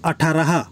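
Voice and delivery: আঠারাহা said as Hindi atharah; Hindi pronunciation. Shown as a demonstration. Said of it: "হিন্দিতে".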